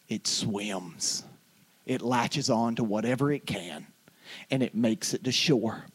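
low, soft, slow pulpit delivery; hushed preaching. Real, not acted. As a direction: draw them in quietly, pausing between phrases.

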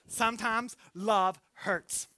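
"Sometimes love hurts" drawn out slowly, weight on "love"; slow emphasis. Shown as a demonstration. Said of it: "repeated as sermon point".

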